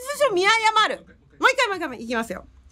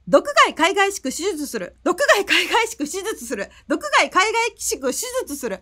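quick triple repetition; tongue twister. Shown as a demonstration. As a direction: fire it off three times. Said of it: "いきます". (早口言葉を三回連続で)

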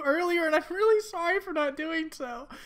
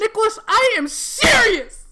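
firm call; 6 semitones higher, 7 dB louder than usual. Acted. Judy waking Nick, insisting.

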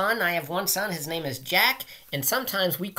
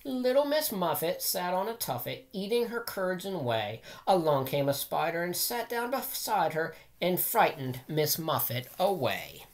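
put-on sing-song rhyme read to children; nursery rhyme reading. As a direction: read it like a bedtime rhyme for kids. Reads nursery rhyme aloud.

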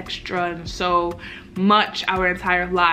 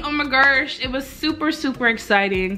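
excited gushing; 7 semitones higher than usual. Real, not acted. Vlogger tells viewers about her talk with God, excited. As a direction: gush it, stretching out the intensifiers. Gushes about turning point at gym.

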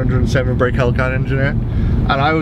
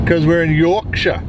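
slow, slightly raised, badly faked Yorkshire; bad Yorkshire accent; 4 semitones higher, 4 dB louder, slower than usual. Vlogger arriving in Yorkshire, badly faked Yorkshire accent. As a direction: have a clumsy go at a Yorkshire accent. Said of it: "Is that a good accent?".

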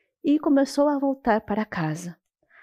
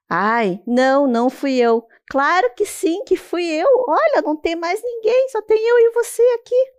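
rising higher and louder to a squeal; squeaky teasing turtle; 7 semitones higher, 4 dB louder than usual. Acted. Turtle insisting to the boy it spoke, rising to a squeal. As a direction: build to a high squeaky insistence.

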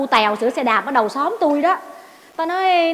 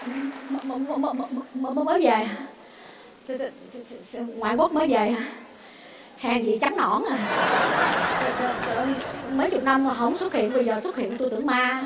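stuttering, bashful and quiet; flustered stammer; 3 semitones lower, 7 dB quieter than usual. Acted. Hostess flustered meeting the Việt Kiều, stammering. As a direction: trip over every first syllable.

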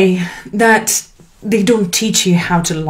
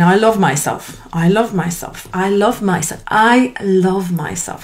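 soft self-love affirmation. Shown as a demonstration. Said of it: "If you're not comfortable with saying".

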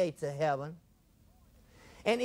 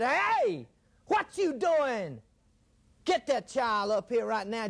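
Jesus calling out; slower than usual. Acted. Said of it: "Jesus said".

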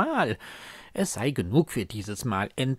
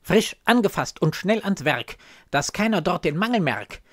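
put-on urgent old nurse; 5 semitones higher, 6 dB louder, faster than usual. Old nurse urges a bold plan.

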